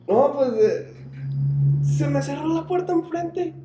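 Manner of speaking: high, tense voice; shaken explanation. Retold or imitated. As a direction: explain it still rattled. Coworker explains door slam.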